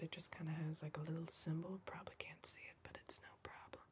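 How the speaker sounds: soft unvoiced whisper. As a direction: keep it all breath, no voice. Whispered roleplay throughout.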